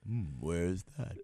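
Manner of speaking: puzzled seller. Retold or imitated. Confused seller.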